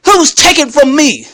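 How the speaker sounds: indignant challenge. Retold or imitated. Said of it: "that's my attitude".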